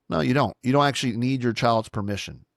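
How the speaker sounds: usual speaking voice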